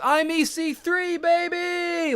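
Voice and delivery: high, drawn-out wrestler catchphrase; catchphrase impression. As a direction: belt it like a ring announcer hype line. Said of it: "then E C three says".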